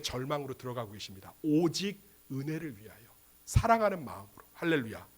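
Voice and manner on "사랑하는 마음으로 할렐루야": ordinary talk, nothing marked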